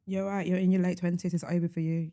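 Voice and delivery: deadpan mock agreement; understated sarcastic verdict. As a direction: agree drily, as if sincere. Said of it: "I hope you hear the sarcasm".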